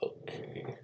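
whispered. Acted. Whispered instructions.

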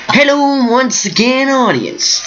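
high, sing-song show-intro greeting; badly attempted impression of a famous host's hello; Tabasco. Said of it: "I can't do the Tabasco's voice".

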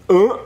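short questioning grunt; imitated grunt. Doctor asking what the sound is, imitated grunt. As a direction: echo the odd noise back, puzzled. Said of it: "He went".

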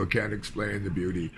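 fighting back tears as the words come; quietly breaking down mid-sentence; choked up. Real, not acted. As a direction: voice catching on real tears. Mourning the lost wilderness.

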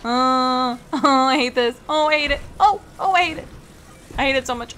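frustrated whine. Real, not acted. Streamer losing it at the game, real frustrated wail. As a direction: whine it out like the game is torturing you.

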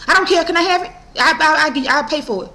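imitated eager, high-pitched pleading; pushy woman impression. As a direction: mimic her tripping over words to pay. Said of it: "That's how she was talking".

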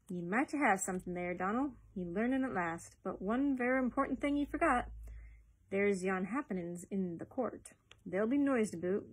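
lightly voiced Scottish boss, grudgingly impressed; approving older Ferguson. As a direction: praise the lad, then caution him in Scots.

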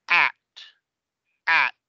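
"At" with English a as in cat; native English pronunciation. Shown as a demonstration. Teacher modelling for class, native English vowel. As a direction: say "At" with throat-shaped English a. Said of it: "fíjense cómo pronuncio esta".

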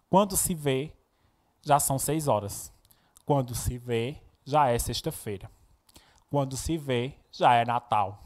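deliberate verse reading, pausing after each refrain; poem recitation. Acted. Teacher reading Mário Quintana to the class, poem recitation.

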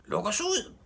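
very high-pitched yell; high, urgent shriek; screaming. A narrator's reading. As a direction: cry out to be let free. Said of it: "skreg Knalle".

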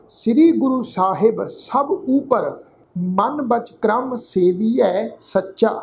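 slow, measured chanting recitation of gurbani; ਹੌਲੀ ਸ਼ਰਧਾ ਭਰਿਆ ਪਾਠ; scripture recitation. Acted. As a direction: recite each word slowly and devoutly.

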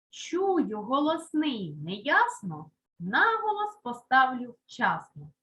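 chanted-out mnemonic with deliberate beats; rhymed rule. Shown as a demonstration. Teacher recites a rule for pupils, measured rhyming delivery. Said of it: "Є таке правило".

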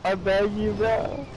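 desperate pleading. Real, not acted. Downed, begging teammate to revive.

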